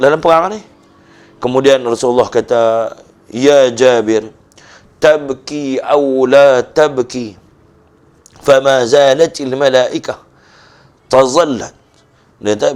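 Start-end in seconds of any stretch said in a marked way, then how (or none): 3.3-11.7 Prophet's solemn words. Acted. Prophet voiced in sermon story.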